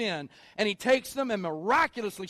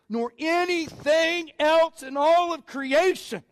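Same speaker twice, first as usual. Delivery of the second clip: rising, building conviction, slower in places; Paul's fervent declaration; 3 semitones higher, slower than usual. Retold or imitated. Preacher voicing Paul's certainty, in fervent declaration. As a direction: preach it like Paul sure of everything. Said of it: "now Paul goes".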